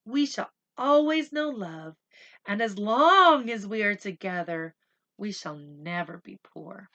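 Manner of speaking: loud loving mother's pledge; mother's blessing. Acted. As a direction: speak it like a vow of hope. Mother's blessing voiced in story.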